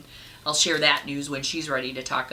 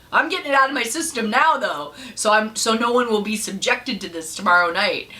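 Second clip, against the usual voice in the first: giggly; 6 semitones higher, 5 dB louder than usual. Real, not acted. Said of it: "And another corny joke".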